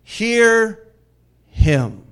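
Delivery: very loud, each word drawn out alone; booming voice. Acted. God commanding the disciples from the cloud, booming voice. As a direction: thunder it as a divine command. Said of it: "this booming voice comes out".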